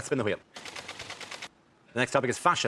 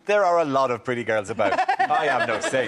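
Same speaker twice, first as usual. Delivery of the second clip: Berlusconi quote; 4 semitones lower than usual. Retold or imitated. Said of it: "The actual full quote was".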